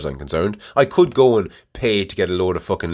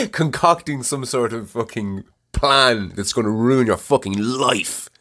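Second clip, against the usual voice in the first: mock psychotic scheming; 3 semitones higher than usual. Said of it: "my psychotic way of thinking".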